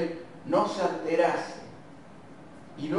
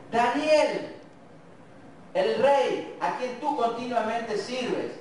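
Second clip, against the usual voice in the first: anxious calling out; 6 semitones higher, slower than usual. Acted. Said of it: "empezó a gritar".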